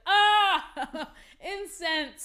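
high laughing delight; blissful sigh. Retold or imitated. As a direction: savour it with a laugh. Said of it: "the other times you're like".

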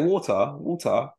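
"water" in a mocked British accent; mocking British accent. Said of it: "he was actually mocking the way we said water".

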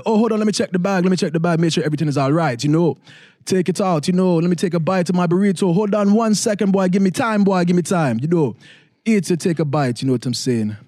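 put-on light Jamaican accent, easygoing; a relaxed, lightly done Jamaican accent. At the window checking the bag, a light Jamaican accent. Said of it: "the Jamaican accent".

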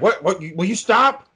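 imitating a wife losing patience; exasperated wife. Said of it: "she was like".

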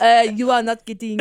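playful mock-French accent; faux-French reply. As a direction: put on a light French accent. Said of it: "You're doing a French accent".

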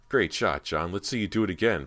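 loud taunting call across the gym; a mock-friendly shout to a rival; shouted challenge. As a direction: challenge him loudly on the court. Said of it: "Brant shouted".

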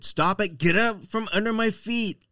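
high-pitched mock exasperation; imitated frustration. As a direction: quote a dog owner at the end of their patience. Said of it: "that kind of frustration".

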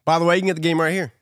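fast mock ad read; fast, mock promo voice. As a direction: rattle it off like a sponsor plug.

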